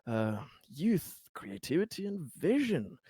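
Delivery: lightly voiced persuader, lilting upward on key words; a hint of a flattering smooth talker; smooth-talking politician. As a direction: play an encouraging, smooth-talking boss. Plays Conrad, the smooth talker.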